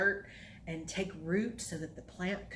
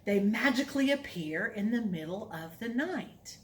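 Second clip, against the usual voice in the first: put-on reading to children; 2 semitones higher than usual. Reads counting rhyme to kids.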